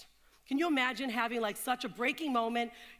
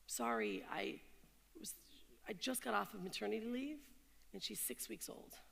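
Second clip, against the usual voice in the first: a new mother explaining to her harsh boss; frightened plea; 9 dB quieter than usual. Retold or imitated. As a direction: plead quietly, scared. Frightened mother pleading softly.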